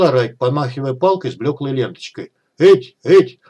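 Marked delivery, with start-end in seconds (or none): 2.6-3.4 crazed shouting zombie. Acted. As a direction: bark it out like a mad zombie. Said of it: "провозглашал безумным голосом зомби".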